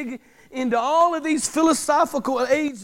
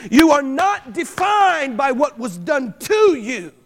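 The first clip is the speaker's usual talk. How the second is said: slow firm declaration; 4 dB louder, slower than usual. Acted. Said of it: "God would have you to declare to them".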